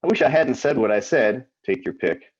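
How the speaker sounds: deliberate recital, each wish lifted then falling; poetry reading. Acted. Poet reading a list of wishes to listeners, poetry reading. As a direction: declaim the verse, pausing between images. Reads own poem aloud.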